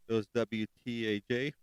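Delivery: normal talking voice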